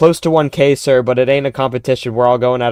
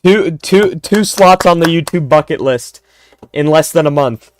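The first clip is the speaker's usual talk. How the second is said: excited; 4 semitones higher, 4 dB louder than usual. Real, not acted. Celebrating bucket list progress.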